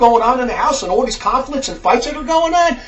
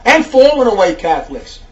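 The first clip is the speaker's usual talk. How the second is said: fiery preaching; 5 dB louder than usual. Real, not acted. Preaches in angry rebuke.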